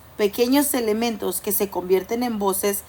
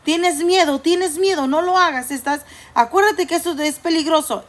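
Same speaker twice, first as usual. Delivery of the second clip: fear voice; 4 semitones higher than usual. Acted. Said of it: "la voz está diciendo".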